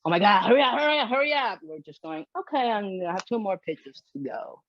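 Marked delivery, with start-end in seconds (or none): 0.1-1.6 rising, hurried mock panic; frantic mock urgency. Shown as a demonstration. Showing owners what not to sound like, frantic. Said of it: "We're not going". 2.4-4.6 softer, unexcited delivery; boring, mundane. Shown as a demonstration. Showing owners how to calm themselves, bored. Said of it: "like, boring mentality".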